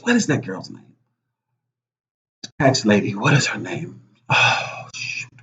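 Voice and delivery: quiet, straining to remember; trailing off while searching memory; brain freeze. Real, not acted. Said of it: "I'm having a, a huge brain freeze right now".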